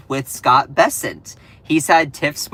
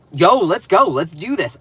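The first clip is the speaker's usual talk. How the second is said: hyped; 2 semitones higher, 4 dB louder than usual. Retold or imitated. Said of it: "And I'm like".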